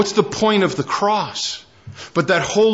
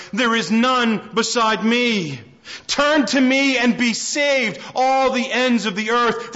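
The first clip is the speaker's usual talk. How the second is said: raised, measured reading of scripture; 3 semitones higher than usual. Acted. Preacher reads Isaiah aloud to the congregation, proclaiming.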